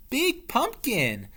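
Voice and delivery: high, slow mummy moan. Acted. Mummy eyeing the pumpkin, moaning. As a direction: drag it out like a mummy. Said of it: "said the mummy".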